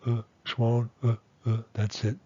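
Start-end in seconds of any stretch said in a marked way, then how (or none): 0.1-0.2 "uh" as a quick neutral vowel; short schwa. Shown as a demonstration. Teacher isolates the schwa, "uh" really short. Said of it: "Really short". 1.0-1.6 "uh, uh" very quick, no real tone; short schwon. Shown as a demonstration. Teacher isolates the reduced tone, "uh" very short. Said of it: "Really short".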